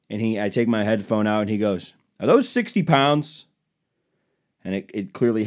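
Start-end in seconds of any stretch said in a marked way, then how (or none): 2.2-3.5 higher-pitched, puzzled stranger voice; mock incredulous question. Stranger questions gym-goer about the dumbbells, mock incredulous. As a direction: imitate someone doubting what they just lifted. Retold stranger amazed at weights.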